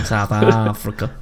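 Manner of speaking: slow, stretched South African attempt; attempted South African accent. Failing at the accent, drawn-out South African. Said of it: "I can't do that either".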